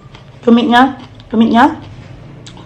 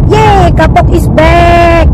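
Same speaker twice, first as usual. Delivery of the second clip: excited; 6 semitones higher, much slower than usual. Real, not acted. Cheering her snack.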